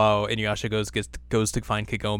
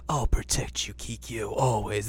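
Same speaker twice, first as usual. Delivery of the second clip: hushed mock vow; 4 dB quieter than usual. Acts devoted vow in a dream.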